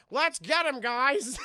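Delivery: high, loud mock rallying cry; comic high-pitched shout; little squishy humans. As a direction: squeal a tiny soldier's battle call.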